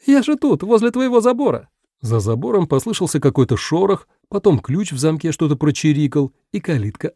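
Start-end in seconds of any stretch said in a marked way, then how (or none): 0.0-1.7 much higher, louder scolding cry; shout. Acted. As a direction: shout a reproach over the fence. Five keeps shouting over fence.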